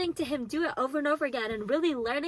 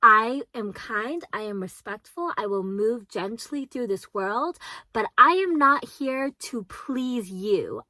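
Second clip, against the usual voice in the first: practiced affirmation. Shown as a demonstration. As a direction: say it like a mantra you rehearse. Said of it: "practice this line so much".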